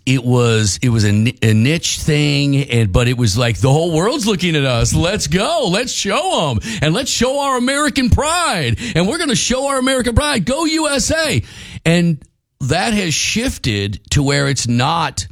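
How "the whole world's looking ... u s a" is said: rising, fired-up rally cry; hyped patriotic cheer. Retold or imitated. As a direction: pump up the crowd, higher and higher. Hyped American pride chant.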